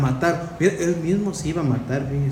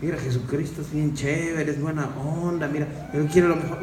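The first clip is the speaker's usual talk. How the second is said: mock casual pitch; 3 semitones lower, 4 dB quieter than usual. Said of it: "sí lo empezaron".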